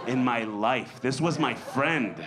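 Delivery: usual speaking voice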